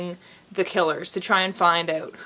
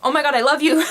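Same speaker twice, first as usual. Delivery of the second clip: louder, higher mock-dramatic love cry; mock swooning; 6 semitones higher, 6 dB louder, faster than usual. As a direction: ham up a gushing romance line. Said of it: "a lot of running and hiding and".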